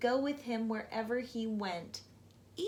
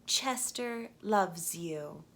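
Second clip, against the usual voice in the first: slow tender sing-song; 4 semitones lower, slower than usual. Acted. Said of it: "it sang".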